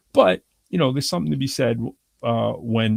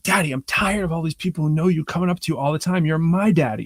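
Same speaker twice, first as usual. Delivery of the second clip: put-on child voice; 5 semitones higher than usual. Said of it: "he's like".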